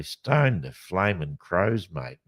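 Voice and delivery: slow, drawn-out "Stone the flaming crows, mate"; hammed-up Aussie exclamation. Host demos a favourite Aussie saying, slow broad Aussie exclamation. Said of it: "but you say".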